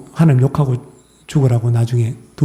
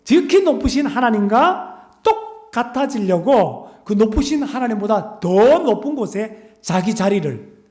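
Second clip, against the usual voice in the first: slow, high sermon emphasis; high-pitched preaching; 8 semitones higher than usual. Acted. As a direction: stretch out the words like a preacher at full force. Preacher emphasizing God's height.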